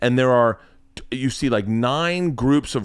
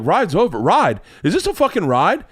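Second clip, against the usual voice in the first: higher, indignant questions in mock dad voice; dad's loud secret; 4 semitones higher than usual. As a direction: imitate a dad incapable of whispering. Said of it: "no ability to talk in, like, a secret".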